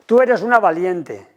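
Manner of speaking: mock-encouraging parent. Shown as a demonstration. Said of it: "como si ser valiente fuera no sufrir".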